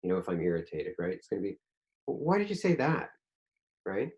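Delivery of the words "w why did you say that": sharp, higher, accusing question; angry. Retold or imitated. Closed person confronting someone, sounding angry. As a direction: snap the question at them. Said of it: "it's gonna come out angry".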